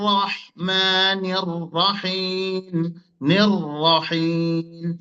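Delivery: slow chanted বিসমিল্লাহির রহমানির রহিম with every র stressed; clear-র recitation. Shown as a demonstration. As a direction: intone বিসমিল্লাহির রহমানির রহিম, long vowels and distinct rolled র. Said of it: "রটা স্পষ্ট উচ্চারণ করতে হবে".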